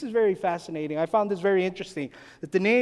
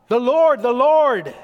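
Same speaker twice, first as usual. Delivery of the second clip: loud, raised proclamation; crying out; 4 semitones higher, 8 dB louder, slower than usual. Retold or imitated. Preacher quoting Moses to the congregation, crying out. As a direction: cry it out high and strong. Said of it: "and Moses cries out".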